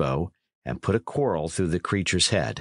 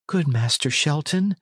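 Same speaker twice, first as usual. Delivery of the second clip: lightly voiced apologetic lad, higher; a hint of a pleading youth; John Matcham; 6 semitones higher than usual. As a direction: politely placate in a raised voice. Plays lad apologising to Dick.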